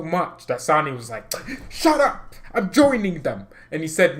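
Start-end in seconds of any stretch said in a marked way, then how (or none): 1.7-3.5 high, loud fed-up outburst; exasperated mock shout. Sané fed up with all the talk, exasperated shout. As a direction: cut the chatter off with a high mock yell. Acts out Sané silencing the critics.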